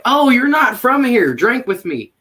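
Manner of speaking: mock-enthusiastic invitation to a newcomer; retold eager invitation. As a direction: imitate an eager festival drinker. Retold festival-goers inviting a stranger.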